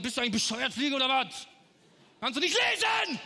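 mock-angry scolding, rising to a shout at the end; scolding the fly. Comic cook yelling at a fly on a string, mock fury. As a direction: tell off the fly, then yell the last question. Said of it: "Hab ich zu ihr gesagt".

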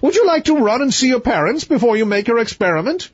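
high-voiced storybook king; king's voice. A narrator's reading. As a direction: pitch the king up, grand and grudging.

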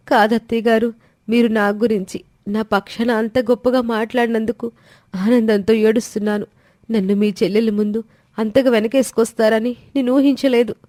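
a grateful bride thanking her mother-in-law through happy tears; tearful young daughter-in-law. Acted.

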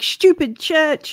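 slow, half-hearted shout; a drawn-out mock shout, no real volume. Player voices her character insulting the church, mock shout. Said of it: "And I'll shout".

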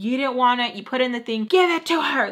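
imitating a scream without full force; retold screaming. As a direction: act out an exasperated scolding that rises. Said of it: "like, screaming".

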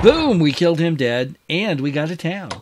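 high, loud burst of victory; gleeful triumph. Real, not acted. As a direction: explode on the first word, then gloat. Player celebrates killing a unit.

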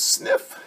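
breathy sad sniff; voiceless little sniffle. Acted. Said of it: "He says".

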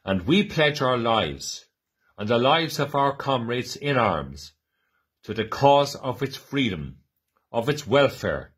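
solemn, rising public declamation; formal proclamation reading. Acted. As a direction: proclaim it to a crowd with conviction. Reads the 1916 Proclamation aloud.

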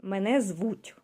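"Мене звуть" slow, stress on "Мене"; teacher demo. Shown as a demonstration. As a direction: model "Мене звуть" for a learner. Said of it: "You can start to read".

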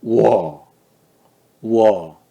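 우어 in a falling third tone. Shown as a demonstration. Teacher showing third tone to students, 우어 falling. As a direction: let 우어 drop down. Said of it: "삼성 어떻게 하면 되냐면".

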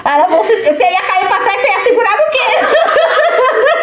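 slow, high squeal of laughter; laughing, high. Real, not acted. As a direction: squeeze the words out while cracking up. Mocking friend's near fall, laughing. (risada aguda e lenta)

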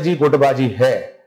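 imitating an unbothered, drawn-out yes; retold calm admission. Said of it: "तो हम कहते हैं".

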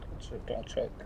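muffled, cupped voice; talking into a cup. Real, not acted. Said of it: "Are you talking into a cup or something right now?".

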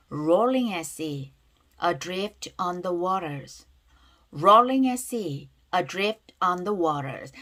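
very slow, drawn-out model reading with words linked; linked-word demonstration. Shown as a demonstration. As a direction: say it slowly for learners, running the words together. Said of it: "연음이 되는 거 체크하면서요". (연음을 살려 천천히 또박또박 따라 읽히는 발음 시범)

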